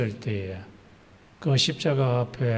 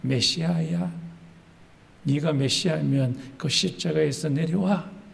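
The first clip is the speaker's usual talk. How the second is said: mocking crowd; 4 semitones higher than usual. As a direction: imitate a crowd jeering, mostly high-pitched. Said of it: "막 조롱했습니다". (군중이 조롱하듯 높낮이를 바꿔 가며)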